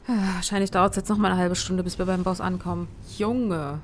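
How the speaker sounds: loud, exasperated grumble; annoyed complaint. Real, not acted. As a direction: vent frustration at the delay. Annoyed at long mission.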